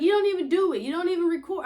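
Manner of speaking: mock-indignant child calling mom out; scolding kid. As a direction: snap it back like a sassy five-year-old. Daughter scolding mom about work.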